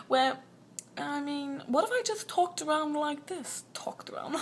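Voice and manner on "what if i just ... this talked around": lightly put-on posh British accent. Wondering about talking like this at school, posh British accent. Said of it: "Oh, so posh".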